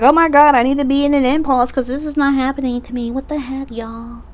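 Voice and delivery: hammed-up frantic impatience, fast; mock panic. Mock-panicking viewer who can't wait for change, hammed-up and fast.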